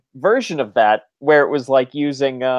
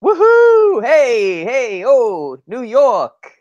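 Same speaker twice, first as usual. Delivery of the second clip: excited cheer; 8 semitones higher, 5 dB louder, much slower than usual. Acted. Cheering for New York host.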